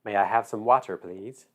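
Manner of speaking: "water" said as open "wah-ter"; politely ask, saying "water" with an "ah"; "water" in the Missouri way, "wah-ter"; Missouri pronunciation of water. Retold or imitated. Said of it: "It's water".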